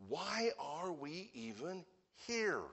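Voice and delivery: puzzled disciples asking why they came; disciples wondering. Retold or imitated. Disciples muttering among themselves, puzzled and complaining. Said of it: "they're probably thinking to themselves".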